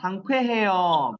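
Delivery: Саңквехе요 stretched out slowly, each syllable clear; slow drilled word. Shown as a demonstration. Teacher modelling Саңквехе요 slowly to students. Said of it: "Бодри, саңквехе요".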